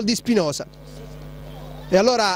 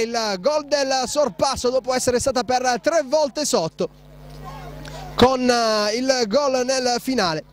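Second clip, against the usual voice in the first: excited commentary; 5 semitones higher than usual. Real, not acted. Final whistle after comeback goal.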